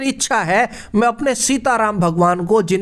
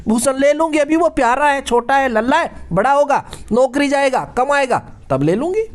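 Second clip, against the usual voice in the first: stubborn wife. Retold or imitated. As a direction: play the wife who won't give up her jewellery. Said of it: "तो पत्नी क्या कह रही है".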